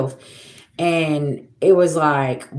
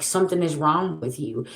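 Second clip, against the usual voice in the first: quiet firm verdict; 5 dB quieter than usual. Real, not acted. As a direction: say it softer, as a settled verdict. Repeats verdict, softer.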